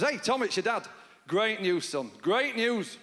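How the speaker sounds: chirpy upbeat dad on the phone; bright cheerful good-news call; optimistic lilt. Retold or imitated. Dad phones son with great news, light optimistic lilt. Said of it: "remarkably optimistic lilt in his voice".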